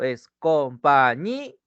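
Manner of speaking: compañí said slowly, pressing the ñí; slow down and lean into ñí of compañí; slow stressed syllable. Shown as a demonstration. Teacher showing the student the strongest syllable, slow and stressed. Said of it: "ella lleva la mayor intensidad".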